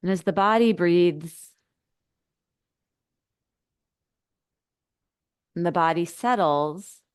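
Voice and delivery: unhurried guide, with long pauses between phrases; settling meditation instructions, spaciously phrased; guided meditation. Acted. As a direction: ease listeners inward, leaving space after each phrase.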